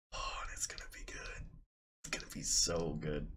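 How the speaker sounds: breath-soft near whisper; hushed anticipation. Real, not acted. Streamer dreaming of building that list, whispered. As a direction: whisper it, relishing the idea. Savouring the deck idea to himself.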